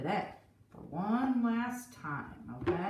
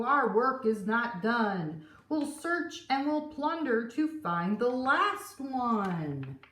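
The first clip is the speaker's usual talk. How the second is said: crew cry; 4 dB louder than usual. Acted. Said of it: "cried the crew".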